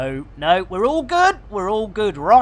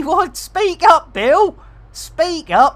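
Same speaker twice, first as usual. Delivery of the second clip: loud mock demand; 8 semitones higher, 6 dB louder, slower than usual. Real, not acted. Telling the quiet AI to speak up.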